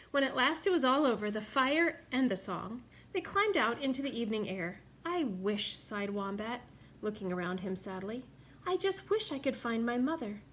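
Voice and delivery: lively picture-book read-aloud; story narration. A narrator's reading. Reading a picture book to children, lively. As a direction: read the story to little listeners.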